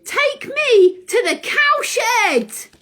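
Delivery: bossy order. Acted. Owl orders the horse.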